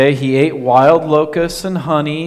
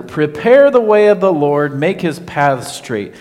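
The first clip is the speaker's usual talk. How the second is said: crying out; 3 dB louder than usual. Retold or imitated. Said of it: "a voice that would cry out".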